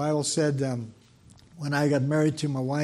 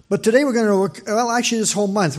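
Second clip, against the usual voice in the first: rising preacher's call; 5 semitones higher, 8 dB louder, faster than usual. Real, not acted. Preacher launching into the sermon.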